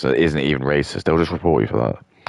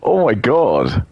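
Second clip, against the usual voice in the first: higher, slow drawn-out amazement; amazed oh my god; 6 semitones higher, much slower than usual. Real, not acted. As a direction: stretch it out in awe. Gaming stream, amazed.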